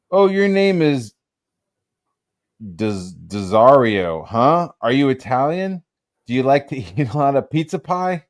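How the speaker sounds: a hint of teasing, prying small talk in someone else's voice; Harlan Ellison. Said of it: "and he said to me".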